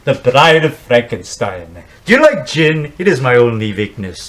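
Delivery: slow, lightly voiced fey doctor; a hint of prissy Pretorius offering gin; Ernest Thesiger impression. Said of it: "how about Ernest Thesiger".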